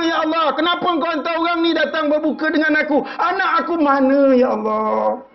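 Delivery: acted anguish, pitched far up; tearful wailing mother. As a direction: cry out to God for a missing child. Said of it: "dah jujai-jujai menangis".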